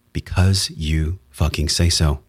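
very slow, measured "Because you fucking say so"; deliberate word-by-word emphasis on "Because you fucking say so"; emphatic. Real, not acted. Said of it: "important to put emphasis on words".

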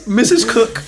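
lightly voiced old lady calling; a hint of a granny; grandma voice. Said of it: "It's Tim Cook's grandma".

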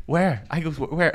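baffled; confused where. Retold or imitated. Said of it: "I was like".

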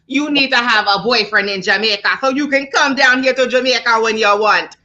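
imitated Jamaican suitor; mock Jamaican accent. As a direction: pitch it like a Jamaican charmer. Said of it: "She's smoking her Jamaican accent".

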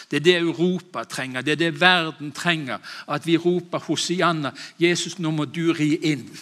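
a climbing, fervent sermon; rising preaching. Real, not acted. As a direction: build it up like a revival preacher. Preaching builds to a cry.

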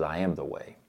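low, soft, assured answer; lightly voiced God, calming a doubt; gently certain, dropped in pitch; quiet reassurance.

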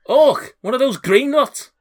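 high, loud, incredulous questions; shouting door guard. Acted. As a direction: query the stranger in a high shouting voice. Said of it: "a shouting voice".

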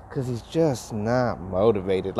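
slow, listless, no motivation in it; unmotivated drawl. Retold or imitated. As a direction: say it slowly, with zero drive. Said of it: "she had no motivation in her voice".

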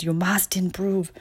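put-on light German accent, understated; toned-down mock German inner critic. Angry German inner critic in the speaker, a light German accent. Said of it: "that has that accent".

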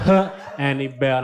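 put-on breathy French accent. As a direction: say it with French flair. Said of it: "a French accent".

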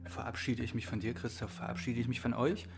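chewing the last bites of cake; mouth full. Real, not acted. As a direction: speak through a mouthful of cake. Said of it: "den letzten Stücken Softcake Orange im Mund".

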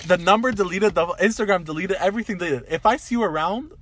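high, loud acted tirade; heated threat. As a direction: list it off like a furious ultimatum.

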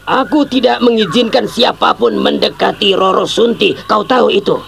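angry father threatening the suitor; angry warning. Acted. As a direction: warn him off your daughter, hard.

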